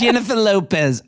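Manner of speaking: copied mock-Aussie accent; Australian accent. Trying out the co-host's two words, Australian accent. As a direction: echo it in a light Australian accent. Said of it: "two words in an Australian accent".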